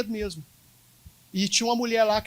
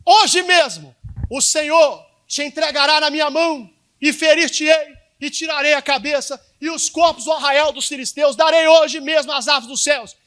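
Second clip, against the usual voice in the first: bold proclamation; 4 semitones higher, 5 dB louder than usual. Acted. Pastor voices David's proclamation.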